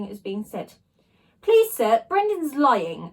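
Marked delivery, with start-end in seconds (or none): 1.4-3.1 high, loud urgent plea; a child's desperate cry of protest. A narrator's reading. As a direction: burst out to stop the teacher, slowing on the accusation. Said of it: "I cried out".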